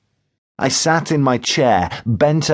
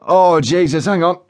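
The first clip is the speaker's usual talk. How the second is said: higher, urgent groan; Joe Windass in discomfort; 6 semitones higher, 3 dB louder than usual. A narrator's reading. Joe breaks off before another burst, groaning urgently. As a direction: beg a moment as the wind strikes.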